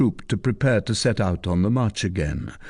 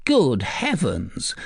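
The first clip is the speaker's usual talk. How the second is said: exclaimed; 4 semitones higher, slower than usual. Acted. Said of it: "she exclaimed".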